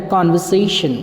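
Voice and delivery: conversation said with the R silent; right pronunciation. Shown as a demonstration. Teacher modelling the correct word, kanvaseshan with the R dropped. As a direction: say कन्वर्सेशन as British kanvaseshan, no R. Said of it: "right word जो होता है वो होता है".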